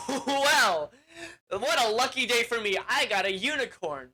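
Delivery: a hint of a greedy crone; gloating witch. Witch gloats over captured unicorn.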